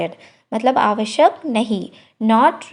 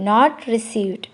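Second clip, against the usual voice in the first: slow, careful model phrase; slow teacher demo of the English; 3 semitones lower, much slower than usual. Shown as a demonstration. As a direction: spell it out slowly for learners. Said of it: "slow model phrase".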